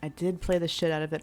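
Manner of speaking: talking while crunching snacks; crunching chips. Real, not acted. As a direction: speak between crunchy bites. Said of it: "I'm sorry if you can hear me crunching".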